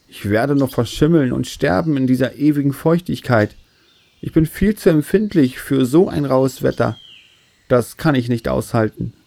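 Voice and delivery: mildly whiny moan from a fussy tree; lamenting tree. Acted. Baobab tree complaining to God about the wet, lamenting. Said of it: "Er jammerte Tag für Tag".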